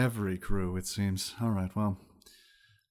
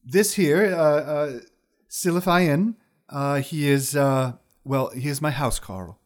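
high wizard lady voice; 4 semitones higher, 6 dB louder than usual. Acted. GM voicing wizard.

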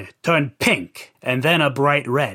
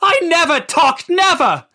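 high, pleading denial on the edge of tears; beg, voice lifting high; mild tearful plea; starting to cry; 11 semitones higher than usual. Acted. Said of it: "Chris started to cry".

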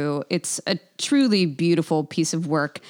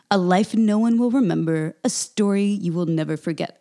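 description voice. Acted. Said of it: "the description voice".

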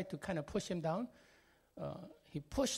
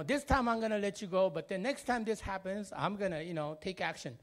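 put-on young ex-Marine cop scolding; stern policeman warning; 3 semitones higher than usual. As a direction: lay down the law to the mother.

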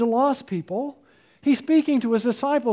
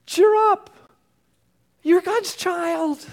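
bright high cheer; 9 semitones higher, 3 dB louder, slower than usual. Shown as a demonstration. Quoting Jesus, high exclaim.

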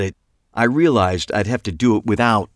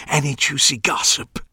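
peer out and ask fearfully, higher; fussy Clive voice; 6 semitones higher than usual. A narrator's reading.

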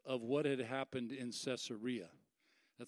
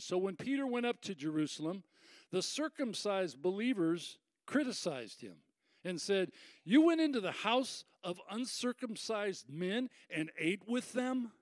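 raised pitch on the critics' charge; mildly accusing; 3 semitones higher, 3 dB louder than usual. Acted. Believers criticizing Peter for eating with Gentiles, mildly accusing. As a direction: read it as a mild accusation. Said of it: "tried to capture it in the tone".

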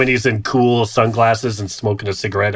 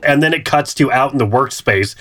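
ordinary delivery

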